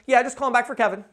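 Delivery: brief and offhand; the caller phones the store again, brief and assumptive; short, assumptive. Shown as a demonstration. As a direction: say it short and let it sit. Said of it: "really short statements".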